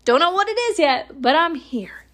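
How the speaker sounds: high, slow, triumphant proclamation to the world; grand baby announcement. Retold or imitated. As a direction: announce your arrival like a conqueror. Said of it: "I was like".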